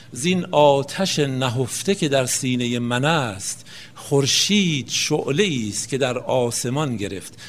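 slow, measured verse reading; poetry recitation. Acted. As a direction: recite the couplet slowly, drawing out the syllables. Recites a Hafez couplet. (شعرخوانی آهسته و کشیده)

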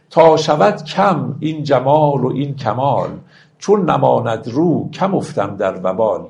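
slow, measured verse reading; stately classical verse delivery; poetry recitation. Acted. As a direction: recite the couplets with drawn-out, metered phrasing. Recites verse between explanations.

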